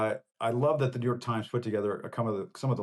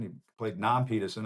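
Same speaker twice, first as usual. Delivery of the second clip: a hint of Cliff Clavin's Boston; Boston accent. Host mimicking Cliff Clavin, lightly Boston accent. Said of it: "as Cliff Clavin might say".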